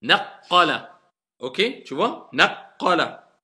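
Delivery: Naqala slow, q held double; shidda on q. Shown as a demonstration. Teacher repeating for the student, slow and deliberate. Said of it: "C'est ça, shidda".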